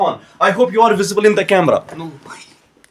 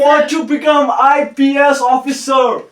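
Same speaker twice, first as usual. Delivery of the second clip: proud announcement; 3 semitones higher, slower than usual. Real, not acted. Announcing the student's aim.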